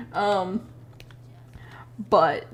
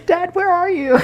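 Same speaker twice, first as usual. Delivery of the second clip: much higher, louder, calling out for Dad; high kid voice calling dad; 5 dB louder than usual. Retold or imitated. Antonio calling Barry, a high, loud childish call. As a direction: play the lost kid calling for his father. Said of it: "being like".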